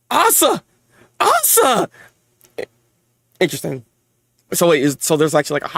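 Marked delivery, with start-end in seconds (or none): 0.1-1.9 high, urgent acted call. Parent calling child Asa to get help, acted urgent call. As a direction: call the name out, higher the second time.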